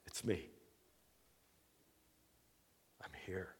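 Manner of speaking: gentle comforting words trailing to a whisper; calm his frightened friends; Jesus reassuring the frightened disciples, gently. Retold or imitated. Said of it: "he immediately goes".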